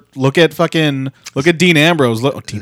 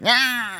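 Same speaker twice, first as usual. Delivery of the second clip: imitated Tyler Bate noise; 7 semitones higher, 7 dB quieter than usual. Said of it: "who's like".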